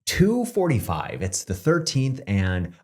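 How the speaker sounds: lightly voiced morning news anchor; breezy news anchor sign-off. Shown as a demonstration. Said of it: "incredible T V anchor voice".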